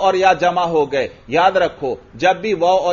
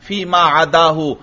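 text recitation. Shown as a demonstration. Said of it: "آگے متن دیکھیے".

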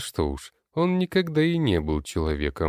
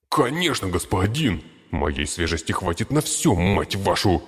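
eager servant voice; 2 semitones higher than usual. Acted. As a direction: shout it eagerly. Green servant answers.

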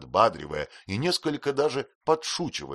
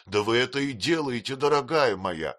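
consoling; 5 semitones higher, 4 dB louder than usual. Acted. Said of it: "утешал её Хэм".

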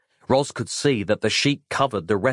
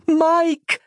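very high, very loud scream of a name; panicked full-voiced cry for help; yelling; 6 dB louder than usual. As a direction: shout desperately into the cloud. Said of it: "she yelled aloud".

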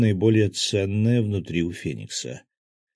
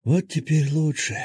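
higher-pitched, relieved wounded man; relieved enjoyment; 8 semitones higher than usual. A narrator's reading. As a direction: let relief lift the voice. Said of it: "глубоко и с наслаждением вздохнул".

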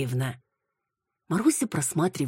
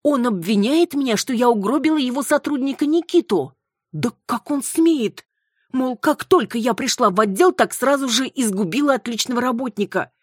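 outraged protest; 9 semitones higher, 6 dB louder than usual. Acted. Outraged at being blamed.

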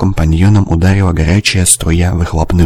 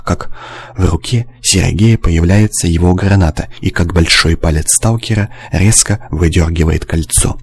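usual speaking voice

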